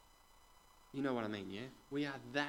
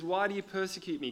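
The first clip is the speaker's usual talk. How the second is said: calling out; 5 semitones higher, 4 dB louder, faster than usual. Acted. Jesus calls out to Saul.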